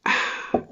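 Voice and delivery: sip then soft sigh; a quiet sip and exhale; sipping pause. Shown as a demonstration. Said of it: "a pause such as this".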